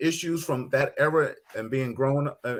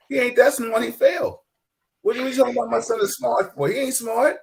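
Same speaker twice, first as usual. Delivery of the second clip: father's scorn; 8 semitones higher than usual. Retold or imitated. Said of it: "He didn't wanna hear".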